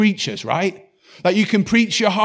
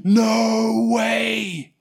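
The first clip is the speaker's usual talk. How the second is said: stunned disbelief; 5 semitones higher than usual. Retold or imitated. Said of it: "they're like".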